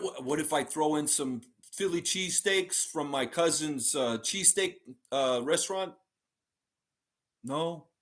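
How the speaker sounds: lightly voiced Philly fan, coaxing; silly mock Philly accent, sweetening the deal; Random Gamer with Philly accent. Fan offering cheesesteaks to the front office, light mock Philly accent. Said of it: "do an impression of you with a strong Philly accent".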